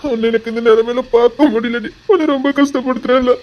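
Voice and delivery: tearful, guilt-stricken self-blame, building in force; anguished apology. Acted. Husband begging his wife's forgiveness, anguished and tearful. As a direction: pour out the guilt, breaking towards a sob.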